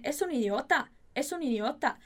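"Es un idiota" in a lilting Spanish sentence tune; Spanish intonation. Shown as a demonstration. Teacher showing learners the funny Spanish tune on "Es un idiota". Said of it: "Essa entonação do espanhol é muito engraçada".

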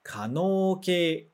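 可能形 said slowly, syllable by syllable; 可能形 drawn out for the class to repeat; slow read-along. Shown as a demonstration. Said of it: "lê junto comigo esse kanji".

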